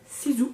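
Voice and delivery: "Sisu" with the second s voiced as z; "zi" pronunciation. Shown as a demonstration. Vlogger reading a brand name her way, "Sisu" with a z sound. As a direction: say "Sisu" as see-zoo. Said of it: "ça fait zi".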